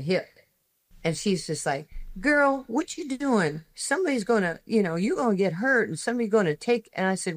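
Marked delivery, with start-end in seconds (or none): 2.2-6.9 sassy scolding lady. Retold or imitated. Big lady scolding her, hip out.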